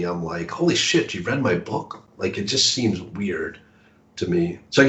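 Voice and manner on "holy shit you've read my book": mild mock astonishment, high at the start; high-pitched opening that drops into disbelief; retold shock. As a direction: act out being stunned, lightly. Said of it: "it still shocks me".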